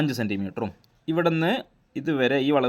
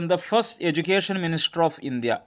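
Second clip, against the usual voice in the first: slow dictation reading; 4 semitones higher, much slower than usual. Shown as a demonstration. Teacher reading out quiz question.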